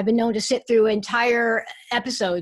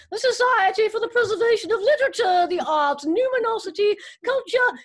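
hammed-up, high-pitched mock announcer; announcer imitation; 10 semitones higher, 4 dB louder than usual. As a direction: mimic a grand intro, stretching out the last words. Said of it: "introduction you just heard".

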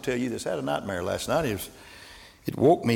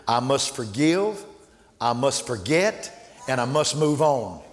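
each phrase slowed and weighed, ending with a rise; slow, deliberate resolve; slower than usual. Retold or imitated. Charlie vowing to forgive, said slow and firm. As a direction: let each vow land slowly. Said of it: "But Charlie said".

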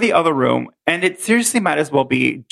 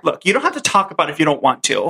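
Brenda reenactment; faster than usual. Acted. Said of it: "me and Robert are gonna reenact it".

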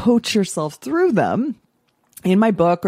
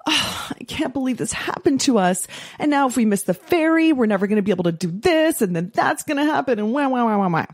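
mock self-pitying whine, higher; whiny victim; 5 semitones higher than usual. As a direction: wail it, hammed-up poor me. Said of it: "then I would be like".

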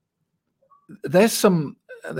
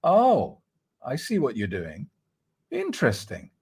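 detached observer. Shown as a demonstration. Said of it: "You go".

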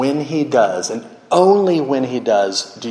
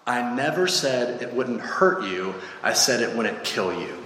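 implacable angel; 5 dB quieter than usual. Acted. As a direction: answer calmly and softly, unmoved.

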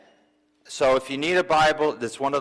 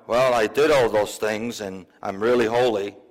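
lightly voiced pious man, pitched lower; a hint of smug holiness, in a lowered voice; self-righteous adult; 5 semitones lower than usual. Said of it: "now we see this adult".

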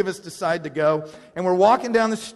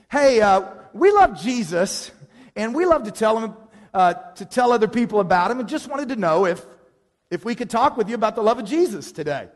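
raised, projected voice; addressing a crowd; 5 semitones higher, 5 dB louder than usual. Retold or imitated. Leader telling partygoers about Jesus, raised public voice. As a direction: pitch it up and out to the whole room.

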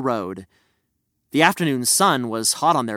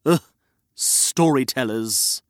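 low, slow grumble; grumpy Reg; 3 semitones lower than usual. Acted. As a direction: grumble it, fed up. Second voice grumbles at the narrator.

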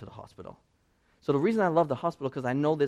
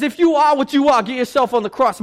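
louder, higher jeering dare; mocking; 9 semitones higher, 11 dB louder than usual. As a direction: sneer it like a taunt from the cross. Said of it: "mocking Jesus".

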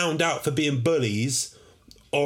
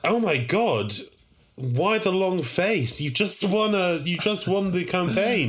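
pompous host voice; 7 semitones higher than usual. Acted. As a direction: address the winner with grand pomp. Host speaking to horse leader.

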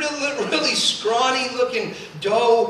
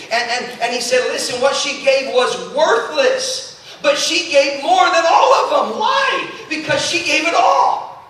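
forceful pulpit exhortation, climbing to a loud peak; impassioned preaching; 4 semitones higher, 4 dB louder than usual. Real, not acted. Preacher urges church to be faithful in giving, impassioned preaching. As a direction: drive it home to the congregation, punching key words.

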